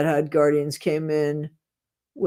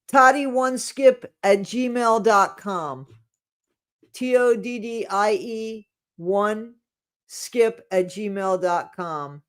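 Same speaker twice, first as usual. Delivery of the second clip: slow dictation; 4 semitones higher, slower than usual. Shown as a demonstration. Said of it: "That's my email".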